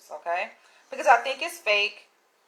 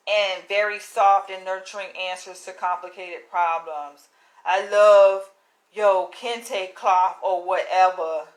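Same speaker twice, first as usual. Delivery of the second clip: mock email writer; 3 semitones lower, 4 dB louder than usual. Vlogger reading out a suspected fake fan email, mocking. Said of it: "Trying to sound, like, ethnic".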